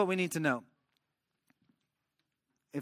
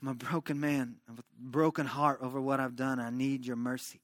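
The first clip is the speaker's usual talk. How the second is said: David's broken prayer; 4 semitones lower, 4 dB quieter than usual. Retold or imitated. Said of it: "David was just before the Lord saying".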